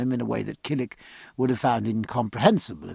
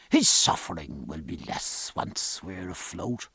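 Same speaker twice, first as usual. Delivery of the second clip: reassuring doctor. Acted. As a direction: promise a full recovery as the physician.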